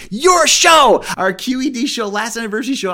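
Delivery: hyped nod to the host's show; excited shout. Real, not acted. Excited callout to host.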